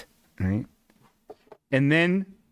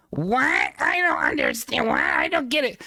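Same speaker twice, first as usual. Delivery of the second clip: mock playing dumb; 8 semitones higher than usual. Lady playing dumb at host.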